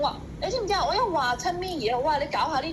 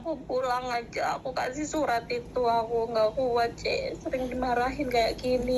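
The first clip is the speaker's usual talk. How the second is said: real tearful complaint; crying. Real, not acted. Maid telling agent she cannot cope, crying. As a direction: complain through tears. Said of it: "nggak usah nangis".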